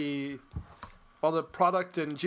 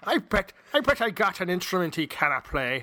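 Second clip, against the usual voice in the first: a touch of a Scottish brogue, a bit louder; 4 dB louder than usual. Acted. Cohost voicing the Scotsman from the joke in a Scottish brogue. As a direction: ham up a Scottish accent for the Scotsman. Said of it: "in your best Scottish brogue".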